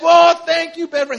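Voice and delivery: high, loud, hammed-up gratitude; overjoyed George Bailey. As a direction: call out thanks in giddy joy. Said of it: "he gets so excited".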